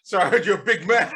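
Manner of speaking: high laughing apology; laughing apology to host. Real, not acted. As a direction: giggle through it. Laughing at friend's teasing.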